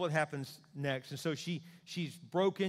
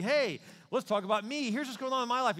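self-absorbed talker; 8 semitones higher, 5 dB louder than usual. Retold or imitated.

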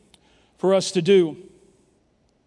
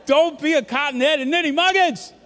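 laughing through the line, higher; can't keep a straight face; cracking up mid-phrase; 8 semitones higher, 4 dB louder, slower than usual. Real, not acted. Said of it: "Stop it".

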